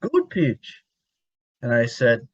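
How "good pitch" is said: laughing through a high mock Spanish accent; high laughing Spanish-accented imitation. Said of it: "a little accent".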